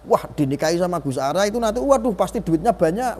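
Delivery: lightly mimicked dreamy excitement; imagined gushing. Speaker voices someone dreaming of marrying him, mock gushing. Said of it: "orang kadang-kadang berpikir kan".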